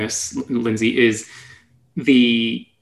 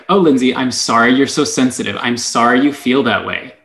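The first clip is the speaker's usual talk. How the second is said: snarky. Retold or imitated. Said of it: "listen to the tone in your voice. Like, it's so snarky".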